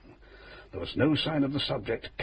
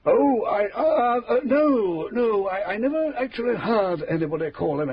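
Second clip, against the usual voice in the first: flustered; 6 semitones higher, 4 dB louder than usual. Acted. Flustered agent caught off guard.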